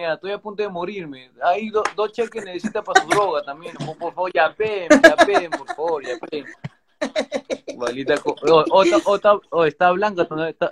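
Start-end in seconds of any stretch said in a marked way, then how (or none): 4.3-6.5 much higher, whiny begging; mock pleading. Real, not acted. Host begging viewers to yape, high laughing whine. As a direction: whine for donations.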